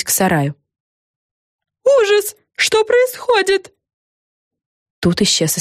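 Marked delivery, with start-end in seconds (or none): 1.8-3.7 high, slow, shocked woman; shocked journalist. A narrator's reading. TV journalist, shocked as the house vanishes. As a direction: gasp it out in shock.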